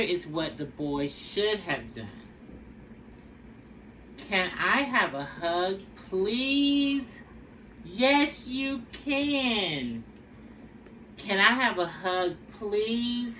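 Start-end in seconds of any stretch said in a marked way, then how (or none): 4.2-7.2 put-on boy asking. Boy voiced asking sister. 7.8-10.0 put-on high little girl saying yes; light, higher child voice agreeing happily; little sister voice. Little sister answering her brother in a higher child voice. 11.2-13.3 put-on boy asking. Boy voiced asking again.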